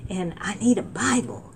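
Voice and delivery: retold plea. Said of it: "I cried out with my heart".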